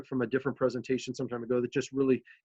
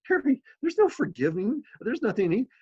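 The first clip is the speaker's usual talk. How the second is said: raised, insistent and earnest, pressing each point home; city manager reassuring a tearful council member, firm and raised; firm reassurance; 6 semitones higher than usual. Retold or imitated. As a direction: talk a friend firmly out of his guilt. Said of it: "And I'm like".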